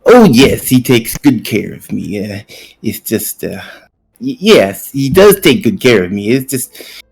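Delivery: lightly voiced, eager young helper; a hint of a nervous, hungry servant; eager little Tippy voice. Player voices Tippy at breakfast.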